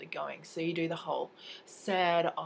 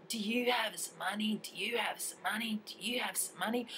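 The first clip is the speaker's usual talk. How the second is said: tags 1; 5 semitones higher, 3 dB quieter than usual. Retold or imitated. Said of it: "they're going".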